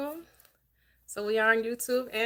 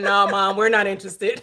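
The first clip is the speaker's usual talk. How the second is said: put-on bored kids; 10 dB louder than usual. Voicing her kids refusing to read.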